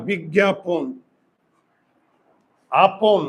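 "বিজ্ঞাপন" slow, ending in pon; o-vowel ending. Shown as a demonstration. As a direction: draw out "বিজ্ঞাপন, আপন" with rounded final o. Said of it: "এই যে ওকার".

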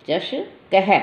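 चषकह with a breathy अह at the end; visarga sound. Shown as a demonstration. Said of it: "अह की आवाज़ नहीं आती".

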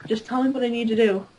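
steady voice with shaky moments; a slight wobble under the words. Real, not acted. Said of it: "your voice sounds a little shaky".

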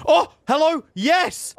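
high, loud hello; delighted greeting. Real, not acted. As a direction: greet the find gleefully. Spots the fortress.

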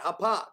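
"Hapak" said with a p in the middle, ha-PAK; alternative pronunciation. Shown as a demonstration. Preacher repeating the Hebrew variant, "Hapak" with a hard p. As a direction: repeat "Hapak" briefly, p instead of f. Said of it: "how about that?".

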